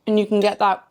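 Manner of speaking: talking with mouth full; words round a mouthful of food. Real, not acted. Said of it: "I'm talking with my mouth full".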